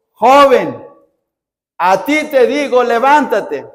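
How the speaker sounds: commanding voice of Jesus. Acted. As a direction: command the dead boy to stand up. Jesús ordena al joven muerto. (orden firme y fuerte)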